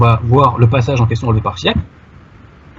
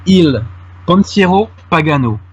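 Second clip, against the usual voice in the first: slow, raised Italian phrase in a French accent; 3 semitones higher, slower than usual. Real, not acted. Speaker quotes the Vatican's Italian translation, in French-accented Italian. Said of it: "pardonnez-moi pour mon accent".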